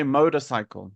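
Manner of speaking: motorcycle with the R dropped; motorcycle without R. Shown as a demonstration. Teacher showing how Australians may say it, motorcycle without R. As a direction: drop the R in motorcycle. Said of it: "So they will say".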